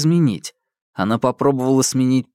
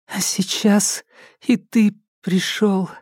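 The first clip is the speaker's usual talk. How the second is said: high, timid echo of his words; obedient repeat; 8 semitones higher, slower than usual. A narrator's reading. Alka obediently repeats the psycho's words, high and timid. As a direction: repeat it meekly, afraid to err. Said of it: "послушно повторила она".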